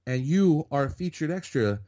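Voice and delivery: high, punchy imitation of an incredulous extra; emphatic disbelief. Envious extra telling newcomer what he landed, emphatic disbelief. Retold extra spelling out his luck.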